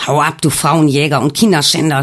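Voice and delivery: a hint of an angry shout; mild mock yell. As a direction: spit the insult at him, lightly voiced. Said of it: "schrie Alex".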